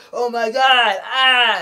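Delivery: loud, high hammed-up gasp of horror; overacted horror-movie shriek; mock shocked outcry. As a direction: play the big realization scene for laughs.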